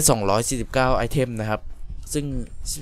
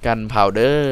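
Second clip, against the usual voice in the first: Gunpowder with a drawn-out Isan lilt; joking Isan accent; 4 dB louder, much slower than usual. Pretend. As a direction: stretch the last syllable like Isan "เด้อ". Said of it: "เขามาจากคนอีสานเว้ย". (เล่นมุกสำเนียงอีสาน ลากเสียงท้าย)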